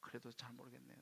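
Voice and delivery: low, hushed aside; doubtful murmur under the breath; inner doubt. Retold or imitated. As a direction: think it to yourself, softly. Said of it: "속으로".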